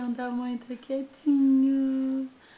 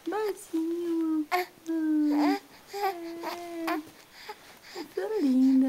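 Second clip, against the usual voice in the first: put-on lightly raised, cutesy little-girl voice with whimpers; baby voice for daughter; 3 semitones higher, 3 dB louder than usual. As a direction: speak for the baby as a small, sweet girl. Mother voices her little daughter.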